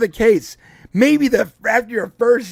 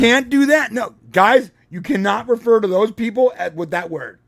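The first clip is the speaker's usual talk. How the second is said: put-on scolding the kids; 2 semitones higher, 4 dB louder than usual. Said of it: "I'm like".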